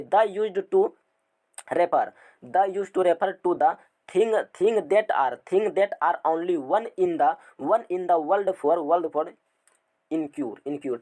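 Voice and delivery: drawn-out word-by-word dictation, very slow. Shown as a demonstration. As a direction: dictate the definition slowly for notes. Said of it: "teacher dictating definition slowly". (बहुत धीरे-धीरे लिखवाना)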